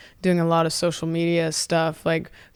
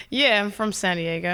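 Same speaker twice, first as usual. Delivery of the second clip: put-on Australian accent reply. Guest answering confused bar-goers, Australian accent. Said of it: "I'm like".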